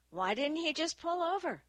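high-pitched, exasperated question; indignant challenge. A narrator's reading. Dewey argues with Annie about the crash, indignant. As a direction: demand an explanation, pitch climbing high. Acted quarrel over the crash.

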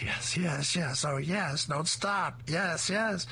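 high, delighted yes yes; a dog melting under tummy rubs; blissful dog. Acted. Dog being tickled by robber, high delighted moans. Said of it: "The dog laughs and thinks".

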